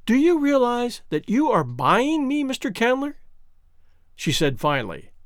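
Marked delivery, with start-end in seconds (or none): 0.1-3.2 mildly cold, higher-pitched challenge; cold, level voice. A narrator's reading. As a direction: put the question with restrained coldness. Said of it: "and in a cold, level voice".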